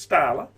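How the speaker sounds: "Starla" as STAR-la, not STELL-a; pronunciation shown. Shown as a demonstration. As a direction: say "Starla" with a long "ar" in the first syllable. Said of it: "I'd pronounce it".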